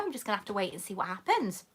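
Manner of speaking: fast, whispered aside. Real, not acted. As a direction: rush it under your breath.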